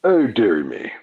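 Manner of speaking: a prim posh Chelsea lady; posh English. Pretend. Posh English, performing a posh lady on request. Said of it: "Can you do a posh one".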